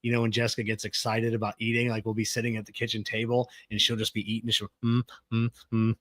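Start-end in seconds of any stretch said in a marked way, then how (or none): 4.8-6.0 happy humming. Retold or imitated. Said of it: "and she's humming".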